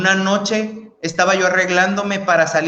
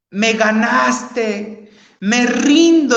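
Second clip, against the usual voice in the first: crying out to God; 3 semitones higher, much slower than usual. Retold or imitated. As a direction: start slow, then cry out the surrender. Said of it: "empecé a gritarle a Dios".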